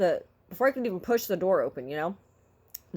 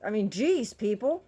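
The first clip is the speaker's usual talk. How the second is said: loud complaint; 4 semitones higher than usual. Retold or imitated. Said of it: "I'm a very vocal person".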